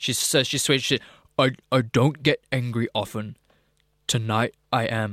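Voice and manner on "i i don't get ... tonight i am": slow, heavy, really deep put-on voice. Reading out a woman convicted of fraud's warning to her enemies: imitating her really deep voice. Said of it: "Should I do it in that voice?".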